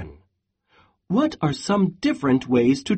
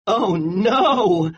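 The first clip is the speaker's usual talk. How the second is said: exclaimed; 4 semitones higher than usual. Acted. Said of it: "exclaimed Goat".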